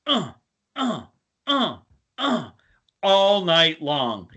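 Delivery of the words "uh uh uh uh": high rhythmic moaning grunts; mock sex moans. Heard through the hotel wall, high moaning grunts. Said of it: "all he hears is".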